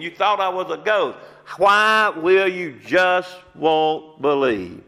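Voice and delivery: a hint of a stern Jesus rebuking, slowing at the end; Jesus scolding. Jesus upbraiding his unbelieving disciples, mildly stern. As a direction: scold them like a disappointed teacher. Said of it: "he says to them, he says".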